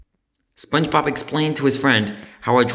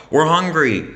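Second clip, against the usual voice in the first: scream; 6 semitones higher, 4 dB louder than usual. A narrator's reading. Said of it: "screamed one of the eels".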